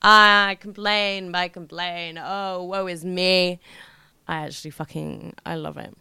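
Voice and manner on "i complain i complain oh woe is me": drawn-out, play-acted self-pity; hammed-up woe-is-me; mock lament. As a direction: moan it slowly, as a joke on yourself. Mocking her own habit of complaining.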